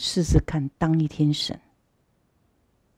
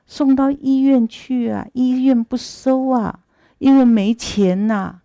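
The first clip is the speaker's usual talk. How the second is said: a touch of tearful begging, slow and higher; tearful pleading; 4 semitones higher, slower than usual. Acted. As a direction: plead to the god like a weeping son, slowly. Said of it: "就哭得稀里哗啦的".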